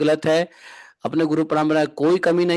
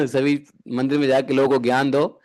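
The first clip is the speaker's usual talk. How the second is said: laughing tease; 4 semitones lower than usual. Real, not acted. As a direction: laugh through the teasing line. Teasing the temple president. (हँसते हुए चिढ़ाना)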